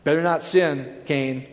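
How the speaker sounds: lightly mocking a legalistic preacher's threat; mock fearful warning. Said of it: "isn't that what you believe".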